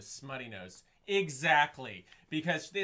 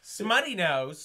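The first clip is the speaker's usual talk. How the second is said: "Smutty Nose" said slow, higher and louder, savoring each word; drawn out name; 3 semitones higher, 9 dB louder, much slower than usual. Shown as a demonstration. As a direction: relish "Smutty Nose" slowly and loudly. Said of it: "savoring the silly name".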